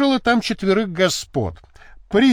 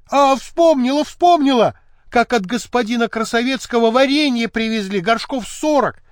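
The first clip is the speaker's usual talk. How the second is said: sudden remembering; 7 semitones higher, 4 dB louder than usual. A narrator's reading.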